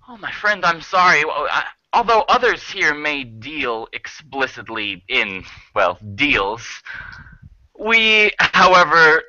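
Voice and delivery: high openings sinking to a measured finish; mock-regretful, then coolly insistent, with weighty pauses; politely menacing owl. Owl answers Shaw's refusal, politely menacing.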